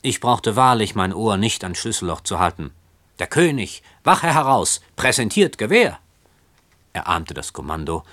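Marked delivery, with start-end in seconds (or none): 3.2-6.0 mock a guard's call in a shrill voice; shrill mock command. A narrator's reading. Cousin mocks her dream of the king, a shrill parade-ground command. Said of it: "ahmte das Kommando mit schriller Stimme nach".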